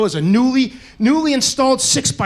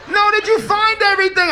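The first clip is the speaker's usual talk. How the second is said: yelling through glass; 8 semitones higher than usual. Retold or imitated. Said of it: "yelling through the glass".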